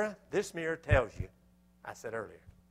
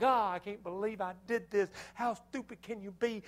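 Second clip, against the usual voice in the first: dismayed self-reproach; 9 semitones higher, 3 dB louder than usual. Retold or imitated. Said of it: "And now I'm just like".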